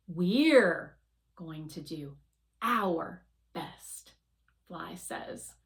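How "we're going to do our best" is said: gentle correction. Acted. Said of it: "correcting me, but in the nicest way possible".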